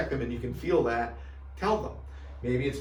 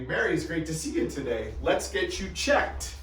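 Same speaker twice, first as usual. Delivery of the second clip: friendly greeting; 4 semitones higher than usual. Shown as a demonstration. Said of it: "That would be a common phrase I would use".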